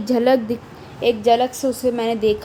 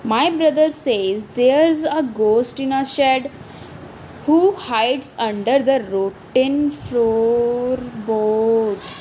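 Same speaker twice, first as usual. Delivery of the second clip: put-on very slow, each word laid out for children; slow poem recital; much slower than usual. Teacher reading the brother line slowly to her class. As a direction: read the verse slowly, word by word.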